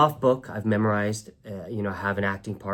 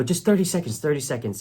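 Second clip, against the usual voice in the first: eager, higher-pitched plea; pleading; 5 semitones higher, faster than usual. Retold or imitated. Young actor pleading with the audition staff, eager and insistent. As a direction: beg them for just a moment.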